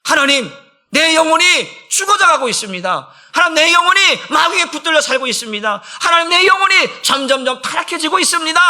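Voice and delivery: fervent, high-pitched prayer cry; 절박한 기도. Shown as a demonstration. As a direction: cry out to God in urgent pleading. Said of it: "내 영혼을 살리기 위해서 기도하세요". (간절하게 부르짖는 기도)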